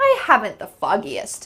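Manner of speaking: playful, tongue-in-cheek, silly sing-song little tone. Teaching an English phrase, showing how to say it with a silly little tone. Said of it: "with a silly little tone in your voice".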